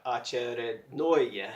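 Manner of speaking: "очередное" slow and even, every syllable the same, stress only on the last "ное"; robot-like. Shown as a demonstration. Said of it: "practice it sounding like a robot".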